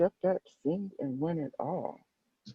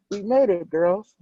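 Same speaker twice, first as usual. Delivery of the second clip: excited Brittany; 5 semitones higher, 6 dB louder than usual. A narrator's reading. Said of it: "said Brittany".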